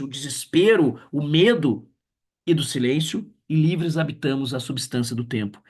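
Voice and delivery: lightly lifted poetry reading; poem recital. Acted. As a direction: let the hopeful verses ring out. Reads Sophia's poem. (leitura poética esperançosa)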